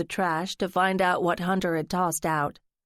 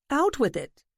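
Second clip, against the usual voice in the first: eager; 6 semitones higher than usual. Acted. Lance eager, claps.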